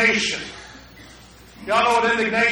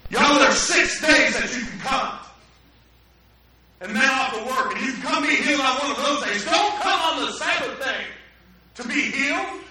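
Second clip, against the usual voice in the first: higher, scolding pulpit rebuke building to a shout; indignant preacher; 5 semitones higher than usual. Retold or imitated. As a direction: lecture the crowd down from the pulpit. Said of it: "he answered with indignation".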